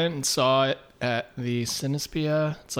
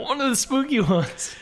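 spooky voice; 10 semitones higher than usual. Pretend. Spooky voice for horror.

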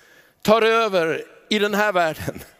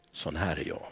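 tender hush; 11 dB quieter than usual. Acted. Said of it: "Varför säger han".

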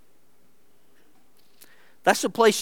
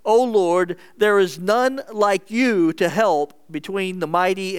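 loud, raised prayer to God; forceful, higher-pitched scripture plea; crying out; 4 semitones higher, 5 dB louder than usual. Acted. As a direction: call out to the Lord. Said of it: "Asa cried to the Lord his God".

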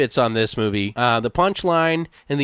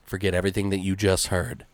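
haunting phone voice; 5 semitones lower, 4 dB quieter, faster than usual. Retold or imitated. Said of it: "the most haunting thing is the guy goes".

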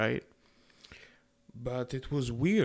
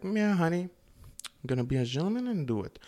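sweetly going along with it, honey higher; playing the willing gentleman to dodge drama; mock agreeable; 5 semitones higher, faster than usual. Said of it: "that's what I said, actually".

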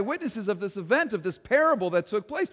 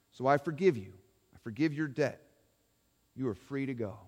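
gentle forgiving king. Acted. The king tells Ed his debt is forgiven, tender and fading. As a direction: grant mercy gently, fading to a hush.

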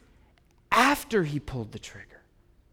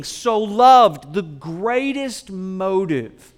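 preaching at full force; 3 semitones higher, 7 dB louder than usual. Acted. Preacher proclaiming God's love to the congregation, full force. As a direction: thunder the good news. Building sermon climax.

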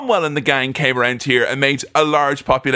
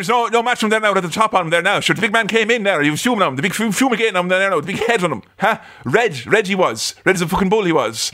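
higher-pitched, garbled Irish traveller patter; Mickey; 4 semitones higher, faster than usual. Acted. Acting the boxer's fight commentary, mock Irish traveller accent. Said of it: "But Mickey, Brad Pitt, uh, says".

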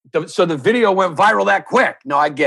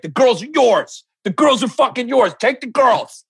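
mock aggressive; 5 semitones higher than usual. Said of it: "my energy was aggressive".

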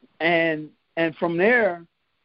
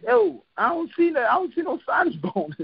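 retold disbelief; 8 semitones higher than usual. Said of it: "and I'm like".

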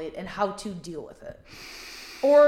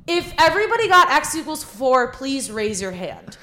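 put-on valley girl voice; 4 semitones higher, 6 dB louder than usual. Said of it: "really valley girl voice".

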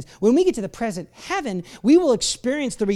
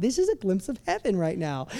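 quiet thought; 5 dB quieter than usual. Retold or imitated. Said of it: "Like right now, this is a glimpse".

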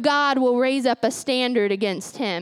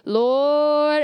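grandma's Lord; 3 dB louder than usual. Retold or imitated. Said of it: "all you hear was".

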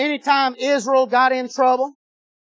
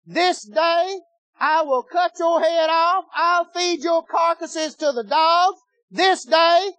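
taunting giant; 6 semitones higher, slower than usual. Acted. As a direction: sneer down at the little shepherd boy. Goliath threatens David.

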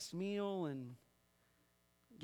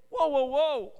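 loud, higher "stop right there"; raised, emphatic interjection; urgent halting call; 9 semitones higher, 14 dB louder, slower than usual. Acted. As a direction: call out to halt a crowd. Voices James halting his readers.

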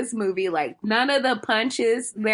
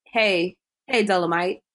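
mock stilted line reading; 3 semitones lower than usual. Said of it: "she be like".

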